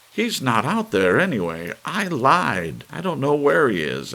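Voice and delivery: blurting out the truth in desperation; desperate confession. A narrator's reading. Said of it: "stopped crying long enough to say".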